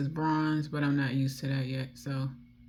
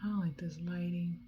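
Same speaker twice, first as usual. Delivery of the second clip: breathy whispered aside; 3 semitones higher, 6 dB quieter than usual. Real, not acted. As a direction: whisper it to yourself. Makeup tutorial, speaking to camera.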